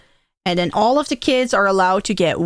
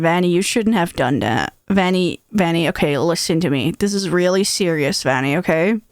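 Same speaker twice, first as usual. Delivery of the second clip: lower-pitched mock-serious father; scolding dad; 4 semitones lower than usual. Dad scolds little Vanny, mock serious. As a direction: imitate a dad giving a grave talking-to. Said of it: "he scolds me and he's like".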